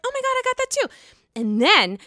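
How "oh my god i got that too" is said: much higher put-on squeal; mock excited. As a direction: chime in with a gushing squeal. Tamra matching the excitement.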